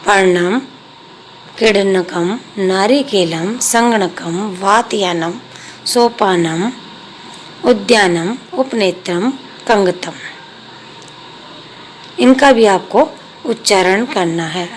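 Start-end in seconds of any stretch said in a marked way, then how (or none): 0.1-10.1 each Sanskrit word said clearly and separately; word list pronunciation. Shown as a demonstration. Teacher naming picture words for students, clear and careful. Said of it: "पदानि उच्चार्येत".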